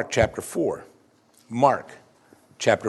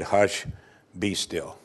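low, understated command, falling away softly; unenthusiastic command; 6 semitones lower, 6 dB quieter, much slower than usual. Acted. Jesus rebukes the wind without needing effort, understated. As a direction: hush it with no effort at all. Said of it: "didn't quite say it with much enthusiasm".

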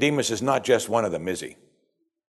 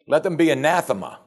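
higher-pitched, scornful pronouncement; religious pride; 5 semitones higher than usual. Acted. Rulers cursing the multitude, proud scorn. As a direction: condemn the crowd from above. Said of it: "shows the religious pride of these men".

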